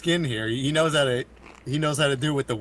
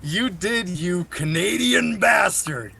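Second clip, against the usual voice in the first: mock insult; 5 semitones higher, 3 dB louder, much slower than usual.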